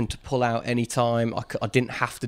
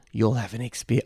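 put-on South African accent; 3 semitones lower than usual. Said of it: "I can't do South African".

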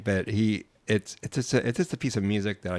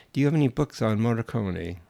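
a light mock Italian accent; a hint of an Italian accent, asking; fake Italian accent; 3 semitones higher than usual. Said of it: "I went to the fake Italian".

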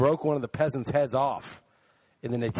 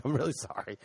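quieter, mild retold apology; apologetic; 5 dB quieter than usual. Tourist apologizing to an angry Italian cop, softly apologetic. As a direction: softly imitate saying sorry. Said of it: "I'm, like, apologizing".

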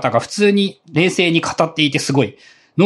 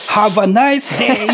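English-style farewell; 5 semitones higher, much slower than usual. Retold or imitated. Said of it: "って言って去っていかないといけないし".

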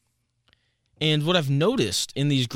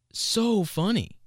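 stretched amused; 9 semitones higher, much slower than usual. Real, not acted. Amused by agreeing fans.

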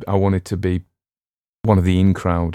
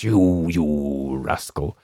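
mock complainer; 3 semitones lower, much slower than usual. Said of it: "People writing comments".

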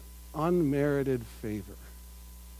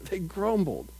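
with a chuckle. Shown as a demonstration. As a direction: laugh into "grumbled".

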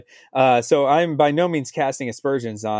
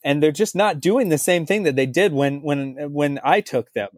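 rising exasperated coach voice; a hint of a baffled coach pleading; frustrated coach; 3 semitones higher than usual. Imitating Gretzky coaching frustrated.

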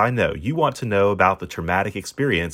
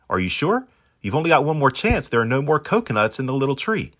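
higher, doubting seagull voice; a sceptical bird, pitched up, asking if he's sure; Baldy the seagull; 6 semitones higher than usual. Acted. Seagull warning the dog about the last coconut, in a higher doubting voice.

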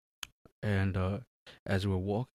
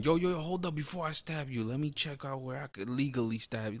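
mock polite attacker; 5 semitones higher, 3 dB quieter than usual. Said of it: "you're not going".

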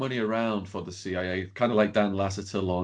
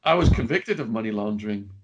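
mildly casual, matter-of-fact admission; casually owning up; nonchalant. Real, not acted. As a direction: say it offhand, like it's no big deal. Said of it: "no nonchalant".

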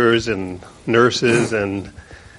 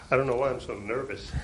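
nervous; 13 dB quieter, faster than usual. Real, not acted. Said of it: "I know you sound nervous".

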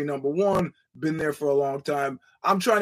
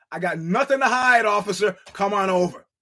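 Jeff Gillooly quote; 4 semitones higher, 4 dB louder than usual. Retold or imitated. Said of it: "to quote Jeff Gillooly".

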